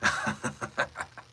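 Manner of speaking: villain's deep chuckle, performed. Shown as a demonstration. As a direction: let out a low, rolling villain chuckle. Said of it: "like a deep chuckle".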